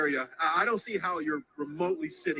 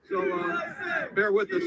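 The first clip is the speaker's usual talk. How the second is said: shouting over crowd; 14 semitones higher, slower than usual. Real, not acted. Reporter shouts to viewers over the chanting crowd. Climbing steps amid loud crowd.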